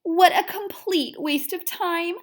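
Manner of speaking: cat scoffs at the hamster, mild disdain; a touch of snooty cat. Acted. Pearl the cat teasing Seymour, lightly snooty. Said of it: "she said".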